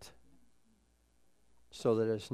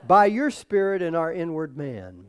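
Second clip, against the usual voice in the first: praying out loud; 3 semitones higher, 8 dB louder than usual. Real, not acted. Leading the congregation in thanks to the Lord, praying loudly. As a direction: pray it out loud, higher and louder, phrase by phrase. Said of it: "but say it out loud".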